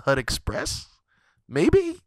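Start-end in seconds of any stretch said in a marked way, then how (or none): 1.5-2.0 very high, slow whiny plea; mock plea. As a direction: whine it up high and drawn out. Mock pleading punchline.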